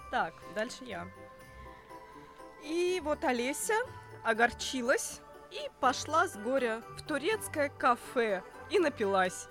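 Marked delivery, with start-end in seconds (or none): 2.6-9.5 mock-solemn storyteller voice; measured storybook narration with playful build; fairy-tale storytelling. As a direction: tell it like a tongue-in-cheek fairy tale.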